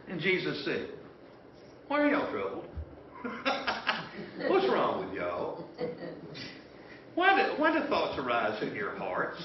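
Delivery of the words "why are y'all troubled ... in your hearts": calm them down kindly, no fuss; mild-mannered. Acted. Jesus reassuring frightened disciples, mild and gentle. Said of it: "Jesus so mild-mannered about it all".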